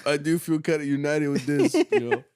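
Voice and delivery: tipsy mock cheer. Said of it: "he's like".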